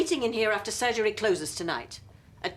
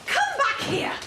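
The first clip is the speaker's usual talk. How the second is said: shouting; slower than usual. Acted. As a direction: yell them back. Receptionist calling after leaving pair.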